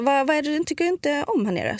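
imitating a parent's coaxing question; coaxing parent, retold. Mother gently questioning child, retold.

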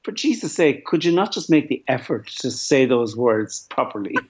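mock exasperation. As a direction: plead as if fed up with sloppy speakers. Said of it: "you're saying to yourself".

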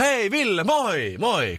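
high cheerful call across the room. Retold or imitated. Friends spotting him at dinner call out his name cheerfully. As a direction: hail a friend from afar, bright and high.

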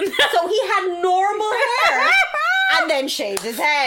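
high, slow and laughing; laughing disbelief. Real, not acted. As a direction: squeal it out through laughter. Telling the head-shaving story.

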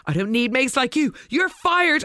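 rising into a hammed-up high declaration; mock dramatic dismissal; mock firing. Retold friend being sacked.

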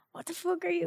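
high, half-laughing shocked cry; shocked outcry. Retold or imitated. Friend shocked at man raising cue, half-laughing outcry. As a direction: blurt it out in disbelief.

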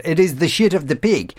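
light mock Spanish accent; a quick, hammed-up hint of a Spanish accent. Radio host quoting the Spanish deli colleague, light mock Spanish accent. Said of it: "pardon to my, for my Spanish accent there".

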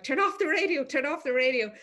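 high, loud teacher telling off. Retold or imitated. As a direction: bark it like a strict teacher. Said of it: "teachers are like".

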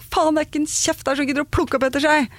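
mock scolding outburst at the whole household; gjenfortalt kjefting. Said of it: "så kan jeg skrike sånn". (oppgitt, etterlignet skriking i høyt toneleie)

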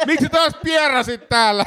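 teasing voice. Retold or imitated. Imagined float tank podcast.

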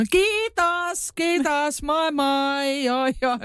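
high, bright chant of thanks; chirpy thank-you caller. Retold or imitated. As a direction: call out thanks cheerfully to the driver. (korkea, pirteä kiittely)

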